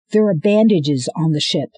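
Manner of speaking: loud, rising to a shout; girl urging everyone aboard; urgent call. Acted. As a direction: hurry them to the ship.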